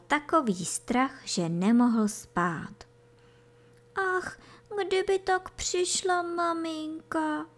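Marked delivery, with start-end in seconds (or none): 4.2-7.5 high, soft little sigh of longing; wistful sighing. A narrator's reading. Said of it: "vzdychal kozlíček". (povzdech vysokým, teskným hláskem)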